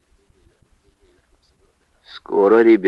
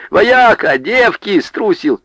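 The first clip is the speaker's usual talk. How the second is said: high-pitched taunting calls; taunting, high and derisive; mocking jeers; 10 semitones higher, 3 dB louder, slower than usual. A narrator's reading. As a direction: jeer at him like a village crowd. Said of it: "насмешливые выкрики".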